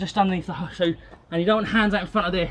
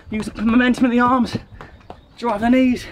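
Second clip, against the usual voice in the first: loud, driving coach call; coach shouting encouragement; 4 semitones higher, 3 dB louder than usual. Real, not acted. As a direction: push them through the last set. Coach pushing the final set.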